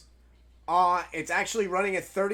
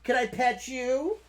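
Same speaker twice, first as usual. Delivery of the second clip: coaxing; 4 semitones higher than usual. Shown as a demonstration. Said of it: "Watch this".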